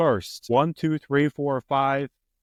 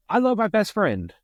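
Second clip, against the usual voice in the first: higher and louder, playing the rooftop yell; mock yell; 11 semitones higher, 4 dB louder than usual. Quoting Superbad to his friend as a playful yell. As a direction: belt it out like shouting from a rooftop. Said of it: "and yell".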